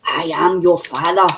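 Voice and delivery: amateur villain impression, deliberately measured; Darth Vader impression. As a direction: intone it like a badly faked Darth Vader. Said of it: "That was not a very good impression".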